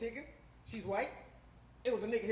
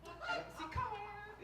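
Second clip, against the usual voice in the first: very high, soft little voice; coaxing; 10 semitones higher, 7 dB quieter, much slower than usual. Acted. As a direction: coax in a small high voice. Acts out silent exchange at home.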